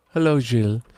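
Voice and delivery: lightly put-on French accent. Shown as a demonstration. Host greets a listener, French accent. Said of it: "say it with a French accent".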